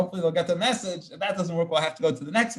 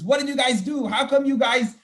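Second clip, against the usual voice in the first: Moses questioning; 7 semitones higher, 4 dB louder than usual. Retold or imitated. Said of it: "Moshe starts questioning".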